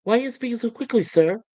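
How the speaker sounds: fast, rushed question; speaking quickly. Acted. Kryten in a time pocket asking Lister, fast. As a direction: rattle it off at speed. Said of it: "I'm not speaking quickly".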